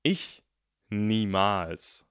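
hammed-up protest of innocence; Harry denying he's a villain, theatrically indignant. A narrator's reading. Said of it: "mit einer Stimme voller Empörung".

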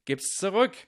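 high, loud indignant yell; shouting. A narrator's reading. Ernie demands Neville's ball back from Goyle, shouting. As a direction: shout the demand up at someone flying. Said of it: "schrie Ernie".

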